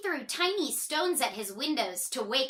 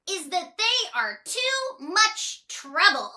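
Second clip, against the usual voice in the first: higher character voice, musing; thinking aloud; 7 semitones higher, 4 dB louder than usual. Acted. Miss Trouble pondering her neighbours, in a higher voice. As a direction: realise it aloud. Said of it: "thought little Miss Trouble".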